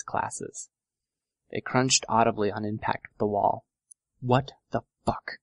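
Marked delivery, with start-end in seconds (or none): 4.2-5.4 understated scream. A narrator's reading. Narrator voices a girl screaming to nobody, understated. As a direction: cry it out in frustration, held back. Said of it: "I screamed to nobody in particular".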